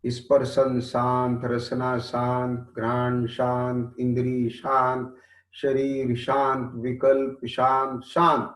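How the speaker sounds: steady chanted rhythm of calm; meditation litany. Real, not acted. Preacher leading a sense-stilling meditation, steady and even. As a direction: intone each sense to stillness.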